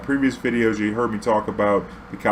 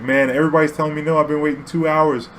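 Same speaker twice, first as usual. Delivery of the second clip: higher, faster whiny plea; pleading tourist; 5 semitones higher than usual. Retold or imitated. French tourist pleading after being refused, higher and faster. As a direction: beg like nobody will help.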